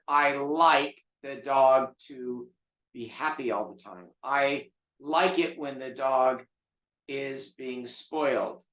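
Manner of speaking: slow, drawn-out imitation of a doting owner; mock doting owner. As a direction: drag out the words as if parroting a pampering owner. Mocking doting dog owners.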